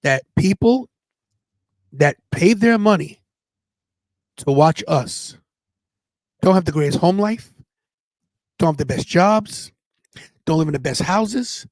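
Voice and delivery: slow, with long pauses between phrases; deliberate, measured retelling with weighty gaps; retold solemn lesson. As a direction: pass on a mentor's creed, phrase by phrase. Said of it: "He goes".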